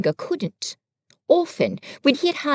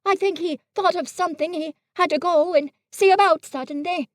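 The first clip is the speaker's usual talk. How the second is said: higher, simple bear voice; Pooh, innocent and fumbling; 7 semitones higher, faster than usual. A narrator's reading. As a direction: play a guileless little bear. Pooh speaking in the story.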